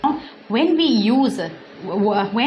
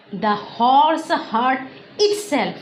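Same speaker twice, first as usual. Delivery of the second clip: slow example; 2 semitones higher, slower than usual. Shown as a demonstration. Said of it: "Now, for example".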